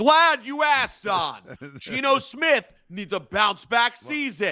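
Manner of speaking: high, screaming, play-acted news reporter delivery. Speaker imagining a reporter answering Don's question, screaming like Rich. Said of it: "why are you screaming at me?".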